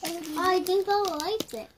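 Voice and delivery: excited. Real, not acted. Kid excited, then laughs.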